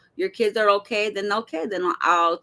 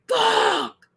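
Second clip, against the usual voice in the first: imitated angry yell; 5 semitones higher than usual. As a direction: snap it out in a burst of rage. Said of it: "and you hear".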